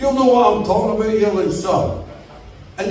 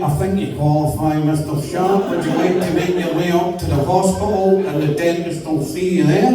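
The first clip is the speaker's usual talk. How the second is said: lower-pitched receptionist voice; receptionist's official manner; 4 semitones lower than usual. Acted. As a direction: drop low and play the helpline official. Receptionist grants him an appointment.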